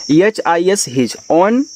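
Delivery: reads the English very slowly, word by word; slow classroom read-aloud. Shown as a demonstration. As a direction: model the sentence for learners. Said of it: "अब".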